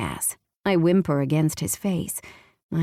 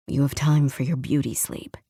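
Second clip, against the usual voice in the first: warning; 3 semitones lower than usual. Acted. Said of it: "he warns".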